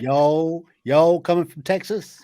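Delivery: playful put-on Texan accent. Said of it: "have I got a Yank accent".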